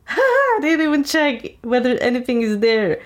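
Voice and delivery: giggly high mock laugh through the words. A woman mocked as she laughs off an empty box, giggling. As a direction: laugh it off like it's all a joke. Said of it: "everything is so funny to her".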